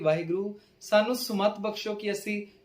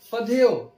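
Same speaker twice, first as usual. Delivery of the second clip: ਫਧਿਓ set apart and louder, pressing on ਧ; forceful ਧ; 4 semitones higher, 7 dB louder, much slower than usual. Shown as a demonstration. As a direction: punch the ਧ in ਫਧਿਓ. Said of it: "ਥੋੜਾ ਜ਼ੋਰ ਲਗਾ ਕੇ ਪੜ੍ਹਨਾ ਹੈ".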